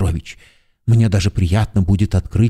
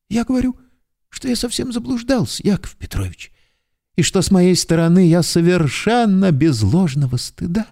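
pleading confession; 8 semitones higher than usual. A narrator's reading. Hero pleads, high, trembling.

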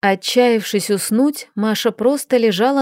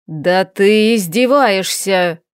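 рёв дракона; slower than usual. Acted. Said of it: "взревел дракон".

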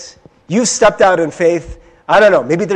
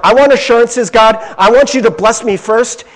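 louder, pushy demand for guarantees; whiny demand; 5 semitones higher, 6 dB louder than usual. Retold or imitated. Believer demanding assurances from God, loud and pushy. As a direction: insist like an impatient believer. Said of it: "we're like".

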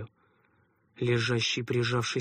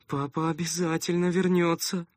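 higher, firmer repeat; insistent repeating; 5 semitones higher than usual. A narrator's reading. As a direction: say it again to believe it. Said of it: "беспрестанно повторяла Аля".

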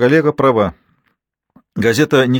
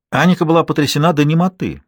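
ordinary delivery, nothing marked

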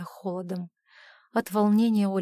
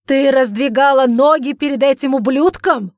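loud, high enraged yell; furious scream; 5 semitones higher, 11 dB louder than usual. A narrator's reading. Father screams at his daughter, beside himself with rage. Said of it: "закричал Эджмонд вне себя".

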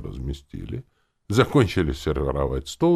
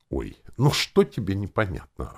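exasperated, raised-pitch exclamation; exclaiming; 5 semitones higher than usual. A narrator's reading. Zombie quartermaster turning to the hero, exclaiming. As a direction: exclaim it as if bothered. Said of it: "воскликнул мой начальник А Х Ч".

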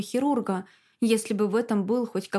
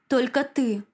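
repeated; 3 semitones higher, 3 dB louder than usual. A narrator's reading. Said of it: "повторил Захар".

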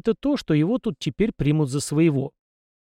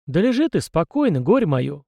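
higher, a snort of mock exasperation; snorting old man; 3 semitones higher than usual. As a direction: scold him fondly, like a grumpy grandfather. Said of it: "фыркнул старик". (фыркая, по-стариковски)

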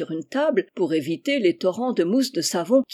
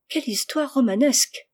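high, thrilled exclamation; impressed, raised voice; excited exclamation; 5 semitones higher than usual. A narrator's reading. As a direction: cry out in romantic wonder. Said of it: "s'écria Rose".

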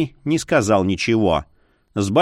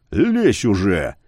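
bark; 3 semitones lower, slower than usual. A narrator's reading. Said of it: "рявкнул он".

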